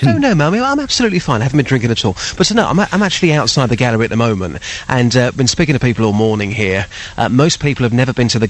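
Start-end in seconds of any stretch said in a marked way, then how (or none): 0.0-3.7 put-on drunk trying hard to sound sober. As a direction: carefully fake being sober for mum. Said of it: "so you try and sound sober".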